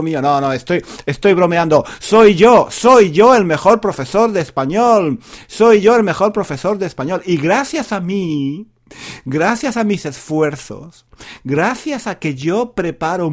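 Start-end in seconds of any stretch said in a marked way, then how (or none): 2.0-11.1 louder, proud mock brag; playful, louder self-praise of the teacher; mock boast. Jokingly boasting he's the best.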